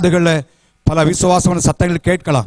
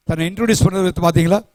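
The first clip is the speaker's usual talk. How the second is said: ordinary talk, nothing marked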